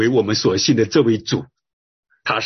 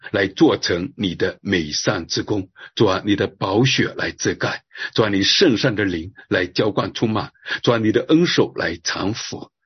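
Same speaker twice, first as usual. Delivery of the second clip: earnest spoken prayer, a little low; 3 semitones lower than usual. Real, not acted. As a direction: lead the congregation gently into prayer. Leads a prayer.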